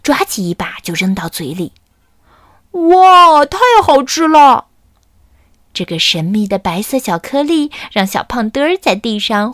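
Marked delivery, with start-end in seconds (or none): 2.7-4.7 high, loud squeal of delight; a greedy chick thrilled by the treat. Acted. Chick squeals over the sugar, high and delighted. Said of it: "只有小胖墩儿毫不在乎".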